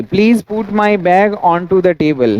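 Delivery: example sentence drawn out word by word; slow dictation. Shown as a demonstration. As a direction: read it slowly so the class can copy. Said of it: "देखिए".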